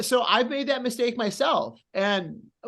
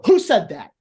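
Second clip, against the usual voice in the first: heel calling out crowd; 6 dB louder than usual. Retold or imitated. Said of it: "I go".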